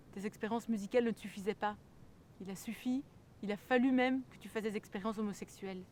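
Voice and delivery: indignant outburst; acted angry accusation. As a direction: confront him loudly.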